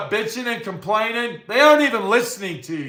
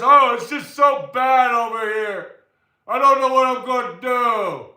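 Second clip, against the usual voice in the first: mock wailing, higher and pitiful; whiny complaining friend; 4 semitones higher than usual. Imitating the billionaire friend on the phone, wailing. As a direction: ham up a helpless moan. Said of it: "that's all he has".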